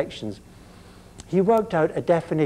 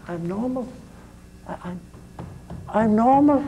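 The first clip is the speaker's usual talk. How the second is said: insistent protest; 6 semitones higher than usual. Retold or imitated. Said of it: "And the guy said".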